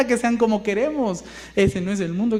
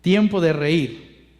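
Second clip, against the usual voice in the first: slow scripture reading; 3 semitones lower, slower than usual. Shown as a demonstration. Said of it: "Voy por la última, que dice".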